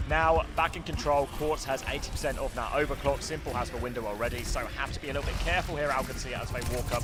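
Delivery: esports caster. Real, not acted. Live play-by-play casting.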